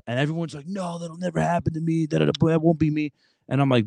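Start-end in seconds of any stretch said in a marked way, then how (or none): 0.7-3.1 high, mock-dismissive student voice. The recruiter mimics seniors brushing him off, high and mocking. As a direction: brush it off like a careless teen.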